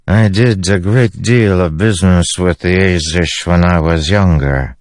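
a touch of a seasoned dealer reminiscing; Fenn. Acted. Fenn speaks to Dalinar from behind, matter-of-fact.

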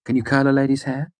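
high, rising challenge questions; arch. A narrator's reading. Denner testing the girl's prospects, archly. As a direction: list each skill as a pointed question. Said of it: "Denner asked archly".

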